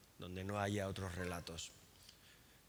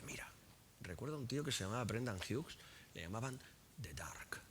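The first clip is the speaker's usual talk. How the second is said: hushed, confiding whisper; 7 dB quieter than usual. Real, not acted. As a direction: lean in and breathe the name. Confiding a dark memory.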